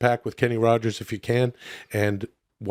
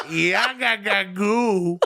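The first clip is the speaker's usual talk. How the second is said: "Yaga-ga-goo" pitched up, final "goo" held long; long final O's; 8 semitones higher, much slower than usual. Shown as a demonstration. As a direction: stretch the "goo" in "Yaga-ga-goo" like a wail. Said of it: "With, like, five O's".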